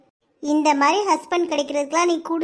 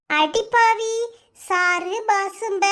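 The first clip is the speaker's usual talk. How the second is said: higher, startled cry of disbelief; shocked gasp; 4 semitones higher, much slower than usual. Acted. Friend gasps at Tulasi's rude words, shocked. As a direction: recoil in scandalised surprise.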